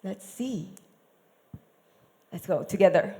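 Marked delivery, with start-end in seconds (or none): 2.3-3.1 casual God. Retold or imitated. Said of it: "I don't think he said it like that".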